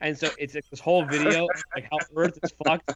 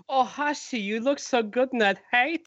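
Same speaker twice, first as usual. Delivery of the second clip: lightly raised, teasing flirt; mock admirer voice; 6 semitones higher than usual. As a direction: tease like a gushing fan. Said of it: "He's like".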